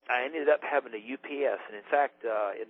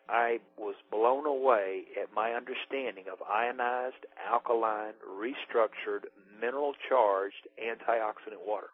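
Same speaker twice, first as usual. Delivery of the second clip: said slowly; slower than usual. Shown as a demonstration. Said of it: "it needs to be said slowly".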